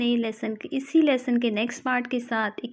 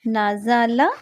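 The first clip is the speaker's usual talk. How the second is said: slow spelling drill; slower than usual. Shown as a demonstration. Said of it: "combine کر کے ایک word".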